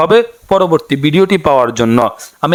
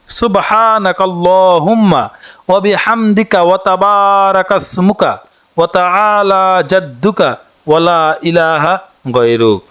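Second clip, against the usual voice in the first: careful recitation. Shown as a demonstration. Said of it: "উচ্চারণটি এভাবে করতে পারেন".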